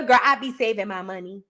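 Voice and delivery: a hint of a low, breezy Fani reply; mock Fani answer.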